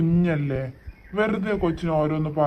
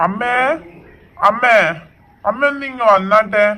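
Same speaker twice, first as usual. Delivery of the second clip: louder call across the house; calling out loudly; 3 semitones higher, 5 dB louder than usual. Acted. Son calling his mother loudly to come over. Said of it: "ഇങ്ങനെ വിളിച്ചു കൂവുന്നേ".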